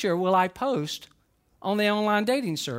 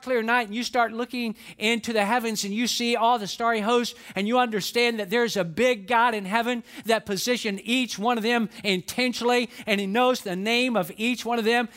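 preaching; 3 semitones higher than usual. Acted. Preaching the prophet's words.

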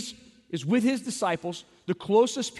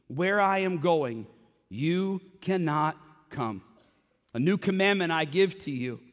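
lower, measured reading of the Gospel; scripture reading; 3 semitones lower than usual. Acted. Reads scripture aloud.

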